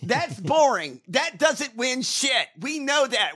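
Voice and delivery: channelling a screaming rant. Pretend. Host channelling a bellowing actor at his party, booming rant. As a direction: let it rip like a bellowing old actor. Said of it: "Channel Brian Blessed".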